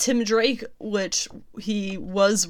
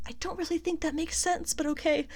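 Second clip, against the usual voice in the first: higher, softer doubtful aside; skeptical; 9 semitones higher, 7 dB quieter, faster than usual. Real, not acted. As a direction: say it doubtfully, shrugging. Skeptical aside about Bendis.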